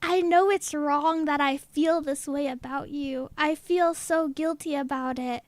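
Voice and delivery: lightly acted sincere admission; retold heartfelt confession. Retelling a friend's guilty love message, low and earnest.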